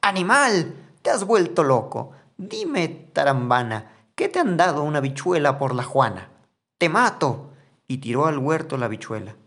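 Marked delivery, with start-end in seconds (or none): 0.0-7.5 mother screaming high and loud at her son; furious shout. Acted. Mother yelling at Juan over the bean, furious shout. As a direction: explode at him, louder and higher on every line. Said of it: "se puso azul y gritó".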